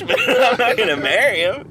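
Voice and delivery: high, loud and breaking into laughter; laughing retelling. Retold or imitated. Retelling a friend's blunt answer, laughing hard. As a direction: imitate the friend, cracking up mid-quote.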